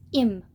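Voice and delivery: "Im" said with no h sound, like 'im; dropped h. Shown as a demonstration. The Hikaru friend's southern "Im", h dropped. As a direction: drop the h in "Im" the way the southern friend says it. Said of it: "not him".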